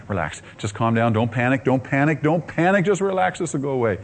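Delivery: calm yourself against rising panic; self-calming. Retold or imitated. Telling himself not to panic.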